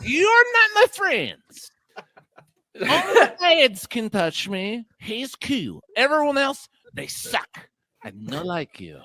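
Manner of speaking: high, wailing diva cat voice; mock-tearful high cat voice. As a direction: play the haughty cat who trusts no one. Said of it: "she talks like this".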